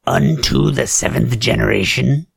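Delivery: "Unto the seventh generation?" repeated with a rising, disbelieving tune; incredulous echo. Acted. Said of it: "That sounds very occultish".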